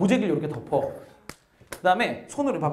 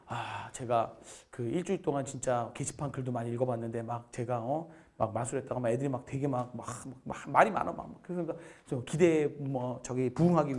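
shy student; 2 semitones lower than usual. Retold or imitated. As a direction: mumble it like a nervous kid. Voicing the shy student's speech.

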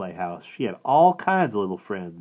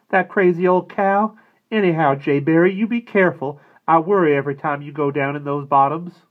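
higher, louder, fretting mother; frowning worried mother; 7 semitones higher, 8 dB louder than usual. A narrator's reading. Mother warns her son before he leaves, higher and worried. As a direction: scold the cow, then plead with care. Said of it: "Mama frowned and said".

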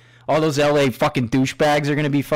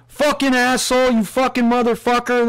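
much higher, louder mock voice of a kid cursing; insult from the back; 9 semitones higher, 3 dB louder than usual. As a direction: imitate a bratty kid swearing over the intercom. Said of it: "I hear this in the background".

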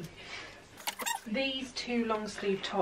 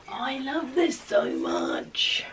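whisper; 4 semitones higher, much slower than usual. Real, not acted. Loves a top.

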